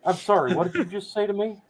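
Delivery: Texan-sounding cartoon dad accent; Southern-accented Biden impression gone astray; Hank Hill. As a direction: do the president with a Texan twang. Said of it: "I'm talking to Hank Hill".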